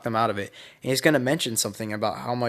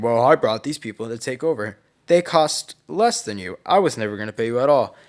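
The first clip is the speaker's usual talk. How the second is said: gloating villain; 4 dB louder than usual. Acted. Villain gloats he never planned paying.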